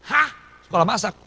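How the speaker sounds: taken aback, voice jumping up; startled disbelief. Retold or imitated. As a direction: react as if you can't believe the order. Startled reply to God's instruction.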